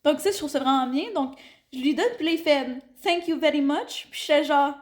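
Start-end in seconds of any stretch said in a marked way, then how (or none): 3.0-4.1 put-on French-accented English. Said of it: "c'était genre".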